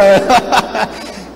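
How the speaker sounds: high hearty laugh after the punchline; amused storyteller's laughter; real laugh. Real, not acted. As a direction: laugh openly at your own joke.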